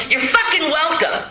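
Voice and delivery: high, laughing you're welcome; cheeky laughing thanks; laughing mock emphatic. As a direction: toss it off with a laugh.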